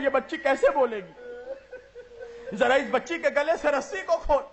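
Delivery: slow, tearful plea; a crying brother's plea; pleading cry. Acted. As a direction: beg for the little sister, voice breaking. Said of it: "इमाम जैनुल आबदीन ने कहा".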